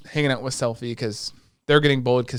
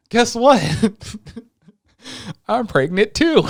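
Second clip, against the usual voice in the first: mock excited maid; 10 semitones higher, 6 dB louder than usual. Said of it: "And the maid's like".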